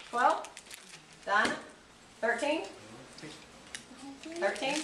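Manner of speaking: quick auctioneer bid calling. Pretend. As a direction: rattle off the bids like an auctioneer. Teacher calls a class auction.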